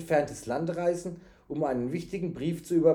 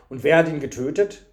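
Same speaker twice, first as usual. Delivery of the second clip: louder, pressing question; urgent question; 8 dB louder than usual. A narrator's reading. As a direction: demand the name of the killer. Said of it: "fragte der Wirt".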